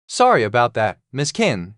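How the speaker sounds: a touch of hoarseness; lightly hoarse, worn voice; slightly hoarse. Acted. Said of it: "slightly hoarse voice rang out".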